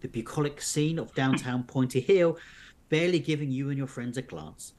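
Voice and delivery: measured storybook narration; narrating an unfolding mystery tale; story narration. A narrator's reading. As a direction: read the adventure aloud to listeners. Reads an adventure story aloud.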